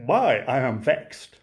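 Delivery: slow, dry Lancashire understatement; a Lancashire mother mildly put out, drawn out; Lancashire mum. Acted. Mother answering Pa about Albert, deadpan Lancashire. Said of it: "my best Lancashire voice".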